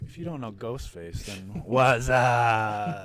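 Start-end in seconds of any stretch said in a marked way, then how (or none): 1.2-3.0 laughing, slowed way down. Real, not acted. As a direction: laugh through the words. Laughs through a joke.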